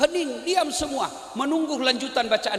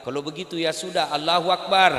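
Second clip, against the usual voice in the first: mock yell; 6 semitones lower, 3 dB louder than usual. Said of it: "dia teriak".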